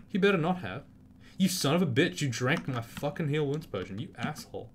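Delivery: high, loud furious yelling at the screen; real outburst. Real, not acted. Gamer yelling at an enemy Centaur, real fury. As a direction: blast the Centaur for stealing the potion. Enemy drank his healing potion.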